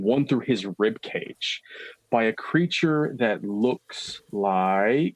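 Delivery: slow, drawn-out horror description; game master narration. A narrator's reading. Game master reveals the impaled priest, slow suspenseful narration. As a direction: linger on each grisly detail.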